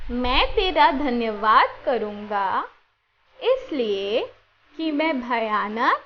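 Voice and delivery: slow verse recited together, steady pace; slow group recitation. Shown as a demonstration. Teacher reciting the memory verse together with children, slowly. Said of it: "साथ में बोलेंगे".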